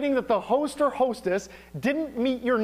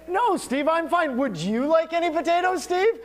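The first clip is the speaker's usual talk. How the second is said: higher, sweetly polite offer; overly courteous, pitched up; 5 semitones higher than usual. Retold or imitated. Mimicking a polite English guest offering potatoes, higher and sweet. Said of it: "and go".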